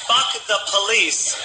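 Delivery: slow, high chanted shout; drunken chant at the police officer; retold drunken yell. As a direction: chant it in the cop's face.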